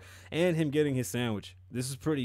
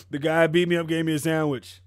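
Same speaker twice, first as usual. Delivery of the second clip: louder, incredulous retelling of the victim; mock victim claim; 2 semitones higher, 6 dB louder than usual. Mocking Jussie's claim to the police, loud mock victim. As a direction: recite the story like an absurd excuse.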